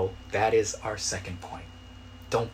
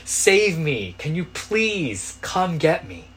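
higher, louder plea to be saved; pleading mock cry for rescue; acted cry for help; 7 semitones higher, 6 dB louder, much slower than usual. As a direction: call out as if being swept out to sea. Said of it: "that action of saying".

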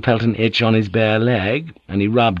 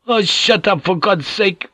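exasperated retort; 9 semitones higher than usual. Acted.

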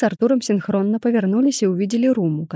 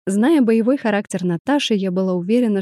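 ordinary delivery, nothing marked

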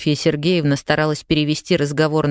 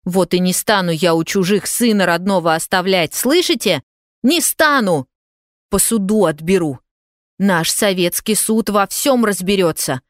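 higher, heated and defiant, spikes on Не стану; angry threat; 4 semitones higher than usual. Acted. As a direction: threaten them, refuse to back down. Zina threatens to take son. (мать гневно грозит отсудить сына)

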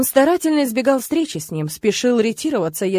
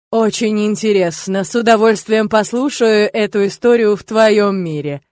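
demon voice; 5 dB louder than usual. Acted. Demon taunting the father.

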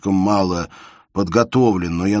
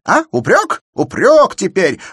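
very high, loud indignant cry; indignant exclamation; 12 dB louder than usual. A narrator's reading. Shubin crying out at Elena's reproach, high and loud. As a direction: throw the word back at her. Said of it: "воскликнул Шубин".

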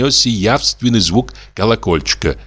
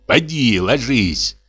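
gruff, higher grumble at his wife; grumbling; 5 semitones higher, slower than usual. Acted. Sexton grumbles at his wife to lie down, gruff. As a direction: grouse at her to go to bed. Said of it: "проворчал дьячок".

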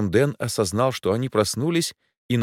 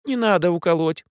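put-on much higher child plea; little girl pleading; 11 semitones higher, 3 dB louder than usual. A narrator's reading. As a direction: protect the pig. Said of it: "отозвалась Марико". (детская мольба)

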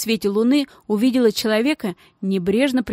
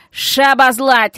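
slow, loud roared order; louder bellowed command; 4 semitones higher, 7 dB louder, much slower than usual. Acted. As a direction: roar it at the gang. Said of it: "рявкнул Мас".

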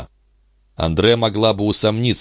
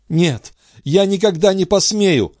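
a much higher, shy frightened protest; Andrée to Charny, much higher and timid; Andrée refusing; 13 semitones higher than usual. A narrator's reading. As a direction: refuse out of shame. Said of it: "отвечал Андре".

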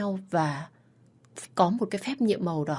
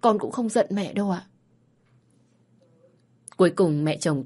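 steady storytelling read for listeners; story narration. A narrator's reading. Host reading a listener's story, calm storytelling. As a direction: narrate the family drama evenly.

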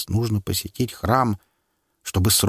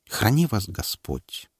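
sad and tender; slower than usual. Acted. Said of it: "очень тоскливо, с еле заметным оттенком нежности".

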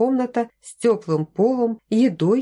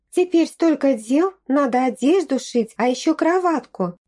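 rattled off fast; 5 semitones higher than usual. A narrator's reading. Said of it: "протараторила Нетта".

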